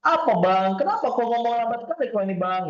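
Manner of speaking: loud, brisk complaint; brisk loud woman. Retold or imitated. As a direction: call out to Abang loud and quick. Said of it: "cewek yang terbiasa".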